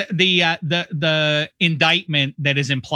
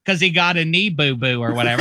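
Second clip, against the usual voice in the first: put-on Pittsburgh accent; 3 semitones higher than usual. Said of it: "This is Pittsburgh doing a Chicago guy".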